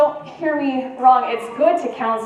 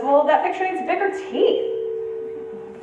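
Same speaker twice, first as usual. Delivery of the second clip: slow, higher storybook crocodile; lightly voiced crocodile, slow and high; 6 semitones higher, much slower than usual. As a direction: draw it out as the crocodile.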